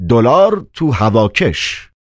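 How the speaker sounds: slow, musing pronouncement; thoughtful. A narrator's reading. Investigator names what he found, slow and thoughtful. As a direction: say it slowly, as if pondering the find. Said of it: "با لحنی متفکرانه گفت".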